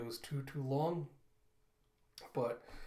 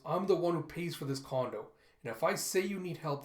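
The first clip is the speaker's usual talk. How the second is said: higher, firm argumentative voice; insist, with a touch of anger; raised voice; 3 semitones higher, 3 dB louder than usual. Acted. Krupp arguing with his father over help, raised voice. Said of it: "he hears raised voices".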